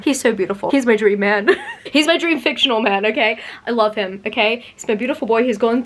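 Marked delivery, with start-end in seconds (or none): 0.7-3.0 giggling through the words; bashful giggly confession; laughing. Real, not acted. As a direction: laugh at your own crush. Laughing about fictional crush.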